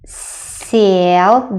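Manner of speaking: Съел said like сел, with a soft palatalized S; softened S in Съел. Shown as a demonstration. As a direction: soften the first S of Съел, end rising. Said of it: "the first S sounds a bit softer".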